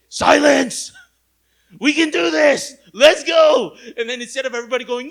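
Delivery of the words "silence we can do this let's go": loud, high mock command; hammed-up Caleb roar; commanding shout. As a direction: bark them into silence.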